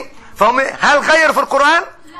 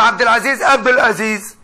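Sudanese pronunciation. Retold or imitated. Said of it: "إخوانا السودانيين ... بيقولوا".

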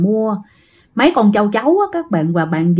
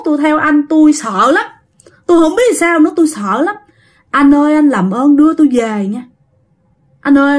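put-on higher, pleading old man with a Northern Vietnamese accent; Northern Vietnamese elder, pitched up and imploring; 4 semitones higher than usual. Frightened spirit begs to be taken home, old Northern Vietnamese man. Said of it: "Ông nói vậy nha".

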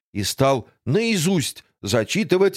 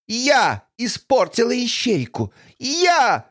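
horror host; 5 semitones higher than usual. Acted. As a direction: boast like a gloating villain. Villain boasts of crimes. (хвастливая злодейка)

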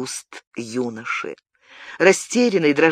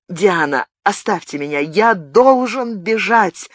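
rising to a higher, louder, slowed cry on the last words; he begs her to let him go, in rising panic; horrified cry; 5 semitones higher, 3 dB louder than usual. Acted. Gabriel tells Diana he must flee, crying out in horror. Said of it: "в ужасе вскричал он".

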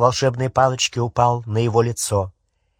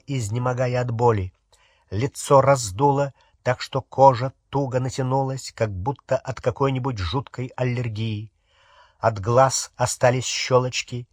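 ordinary delivery, nothing marked

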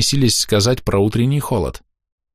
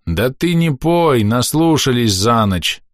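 grumpy; 5 semitones higher, slower than usual. Acted. Grumpy voice from stove.

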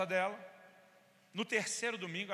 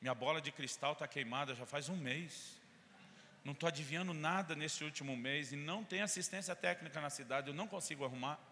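sarcastic; 2 semitones lower than usual. Retold or imitated. Pastor mocking the offended church member, ironic. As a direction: lay the sarcasm on thick. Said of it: "Eu fui bem sarcástico, bem irônico com ela".

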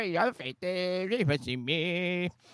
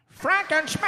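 grand announcer; 9 semitones higher, 3 dB louder than usual. Pretend. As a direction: announce him like a circus star. Announcing again. (annonceur de cirque)

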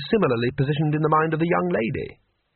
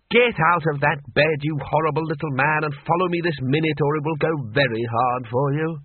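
mildly raised, commanding anger; fed-up barked order; 3 semitones higher than usual. Acted. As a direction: order him about like someone out of patience. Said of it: "Ridcully had had enough".

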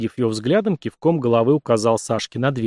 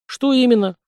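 high, louder mock-innocent question; playing dumb; 12 semitones higher, 3 dB louder than usual. A narrator's reading. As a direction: act like you have no idea. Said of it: "включил дурака парень".

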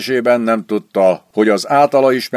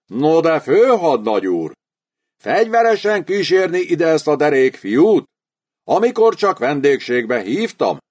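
lightly voiced smooth nobleman, a bit higher; the baron flatters the student with elegance, lightly voiced; elegant baron; 5 semitones higher than usual. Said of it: "minden eleganciáját latba vetve".

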